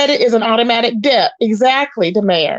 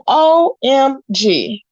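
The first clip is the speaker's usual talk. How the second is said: exasperated disbelief; slower than usual. Retold or imitated. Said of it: "I said".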